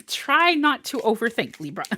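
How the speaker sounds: words still carried on a laugh. Real, not acted. Reader repeats her advice to Libra, laughing. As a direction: say it through a chuckle.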